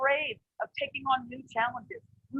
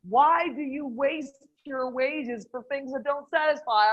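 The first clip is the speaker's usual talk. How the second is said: slow, weighty scripture reading; 4 dB louder, slower than usual. Retold or imitated. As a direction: read the verse slowly, with weight. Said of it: "he pulls out Isaiah fifty-five".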